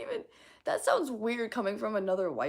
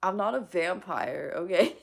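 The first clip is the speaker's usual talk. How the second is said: laughing through the denial; 5 dB louder than usual. Real, not acted. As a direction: giggle while protesting.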